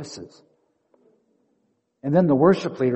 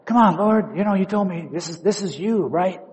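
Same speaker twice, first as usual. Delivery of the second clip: exasperated plea; 5 semitones higher than usual. Pretend. Frustrated pastor pleads with God.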